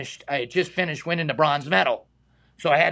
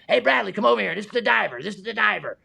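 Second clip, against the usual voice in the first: higher-pitched, eager introduction; imitated calling over; 4 semitones higher, faster than usual. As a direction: lightly act out calling a friend over to meet someone. Retold calling a colleague over.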